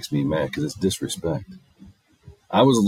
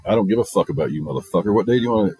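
mock rude subtext; 4 dB louder, faster than usual.

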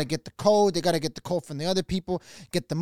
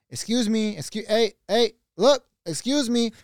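trying to get attention; 4 semitones higher than usual. Retold or imitated.

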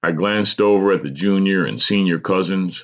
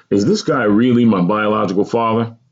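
higher, pressing question; insistent questioning; 4 semitones higher, 5 dB louder than usual. Acted. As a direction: press for an answer with raised pitch. Narrator confronts aunt about father.

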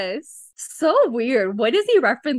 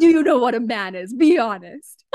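stern mock interrogation, slightly louder; scary voice; 3 dB louder than usual. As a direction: play the scary inquisitor. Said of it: "This is my scary voice".

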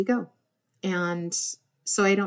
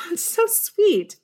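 gushing delight; 12 semitones higher, 3 dB louder, slower than usual. Retold or imitated. Recalling coworker's sweet note.

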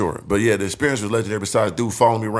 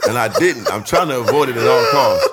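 laughing through words; 5 dB louder than usual. Real, not acted. Laughing while telling story.

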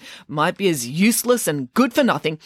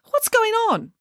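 calling out. Acted. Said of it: "called Geppetto Piggins".

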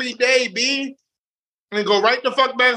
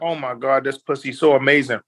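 low, intimate, gushing praise; mock passionate whisper; 6 semitones lower than usual. Shown as a demonstration. Man to his partner in bed, lightly acted gushing. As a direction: breathe it like you're overwhelmed with pleasure. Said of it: "that's to get your juices going".

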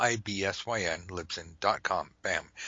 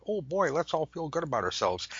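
mock cheer; 7 semitones higher than usual. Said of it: "It's not just about".

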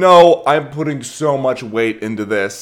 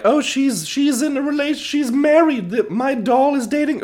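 very high, squeaky imitation of a child playing dolls; little girl's voice. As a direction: pipe up as a small girl making up doll stories. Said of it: "and she was like".

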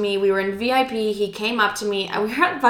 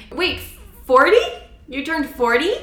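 stunned disbelief; 6 semitones higher than usual. Retold or imitated. Shocked at his age.

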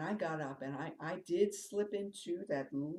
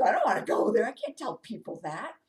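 laughing; 7 semitones higher, 13 dB louder than usual. Retold or imitated. Laughing at the woo-woo idea.

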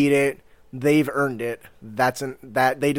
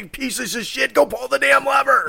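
high, strained call for help; play-acted angry holler; mock shouting; 10 semitones higher than usual. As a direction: yell up at friends from a trap. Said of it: "they can sit and shout".

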